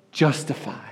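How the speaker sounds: whispered, awed declaration; hushed cry. Acted. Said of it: "Jesus' blood cries out".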